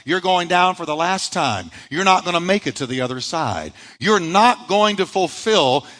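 a hint of an ominous taunting voice; voice of the storm. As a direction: taunt them as the storm would. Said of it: "Their storm was telling them".

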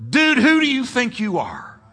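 high-pitched, affronted challenge; who-do-you-think-you-are indignation; indignant challenge. Acted. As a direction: call out the mocker as David. Preacher voices David challenging Goliath.

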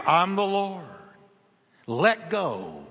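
lightly voiced Lord, measured and sinking low; a hint of God calling down, deep and calm; deep voice from above. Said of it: "a deep voice came booming down".

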